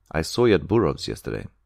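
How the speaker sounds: ordinary delivery, nothing marked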